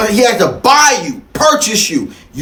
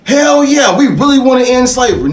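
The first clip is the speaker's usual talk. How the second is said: mock fake abolitionist; 5 semitones higher than usual. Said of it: "to make you think".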